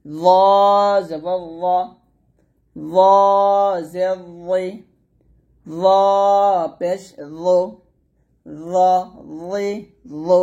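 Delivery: thick র with the tongue lifted; heavy za. Shown as a demonstration. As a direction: draw out র, keeping it heavy on each vowel. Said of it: "জিহ্বাটা উপরে যাতে লাগাবেন". (র মোটা করে টেনে)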